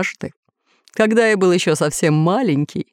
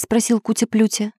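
usual speaking voice

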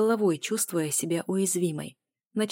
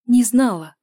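much higher, louder repeat; anguished cry; 6 semitones higher, 11 dB louder than usual. A narrator's reading. Heroine insisting to her lover she did not know, anguished cry. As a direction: cry it out in despair.

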